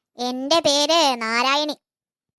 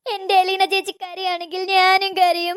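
put-on whiny kid; 3 semitones higher than usual. Whiny child threatens to cry.

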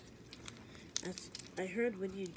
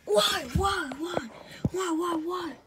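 high wailing sobs, each why falling; crying why; 9 semitones higher, 6 dB louder than usual. Acted. Letter mourning his friend, sobbing why again and again. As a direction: wail it out in grief.

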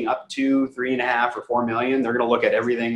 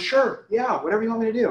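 higher, breezy eager-to-please client voice; imitating the eager client; 9 semitones higher than usual. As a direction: play the client who agrees to anything, pitched up. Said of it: "She goes".

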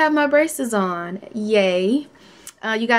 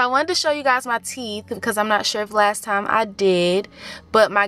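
talking with lip held open; fingers pulling lip up. Real, not acted. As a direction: hand at mouth. Seen 2: Fingers pull upper lip up to show braces while talking.

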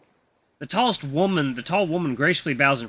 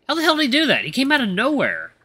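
high-pitched disbelief; baffled outburst to himself; astonished; 11 semitones higher, 4 dB louder than usual. Acted. Eli wonders how the little butler appeared, astonished.

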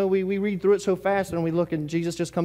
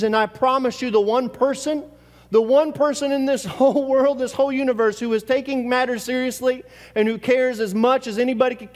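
fervent; 5 semitones higher, 3 dB louder than usual. Acted. Preacher promises congregation emphatically.

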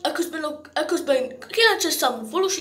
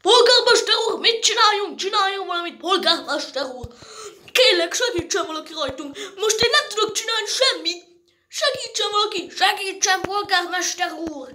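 panicked pleading; 4 semitones higher than usual. Acted. Panicked villagers beg mayor for help.

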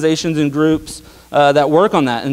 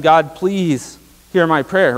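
imitated pleading prayer; much slower than usual. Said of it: "Nehemiah is basically just praying to God".

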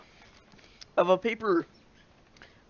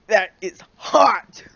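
mock admiration; 9 dB louder, slower than usual. Real, not acted. Reacting to absurd paper.

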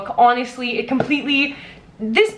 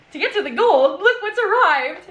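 laughing; 6 semitones higher than usual. Real, not acted. Unveiling her new book.

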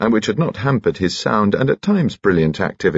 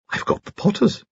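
put-on chirpy piping little old gentleman, much higher; high-pitched Bunchy. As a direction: pipe cheerfully like a tiny jolly gent.

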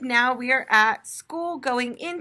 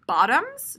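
unsure guess; 3 semitones higher, 4 dB louder than usual. Shown as a demonstration. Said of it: "It starts with the b".

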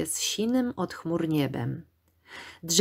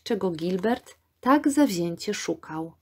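ordinary delivery

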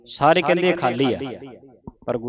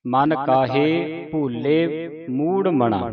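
slow, drawn-out measured chant; slow scripture recitation; much slower than usual. Shown as a demonstration. Teacher reciting scripture slowly for a student. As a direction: recite slowly, pausing at each stop.

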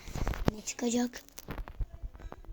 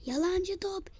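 mock sing-song; 8 semitones higher, slower than usual. Mocking the ball.

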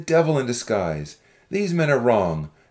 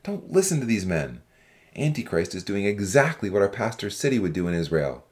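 low-pitched, forceful character harangue; restrained shout of an accusing young man; shouted warning; 9 semitones lower than usual. A narrator's reading. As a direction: call out a warning without much volume. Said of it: "a young man stood up and shouted".

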